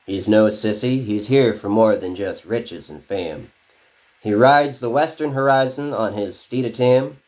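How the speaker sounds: rhythmic spoken word western poem; cowboy poetry. Acted. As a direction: perform it as a cowboy ballad. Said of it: "It's a cowboy poem".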